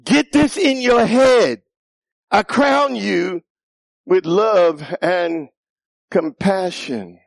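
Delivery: slow, weighty "Get this in your head", stress on in; God's voice. Pretend. God crowning the listener with love, slow and solemn. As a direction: speak it as God, slow and heavy. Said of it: "He said".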